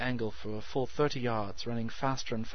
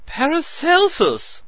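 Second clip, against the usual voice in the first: high piping cry; piped; 13 dB louder, slower than usual. A narrator's reading. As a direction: pipe it out shrill and high. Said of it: "he piped".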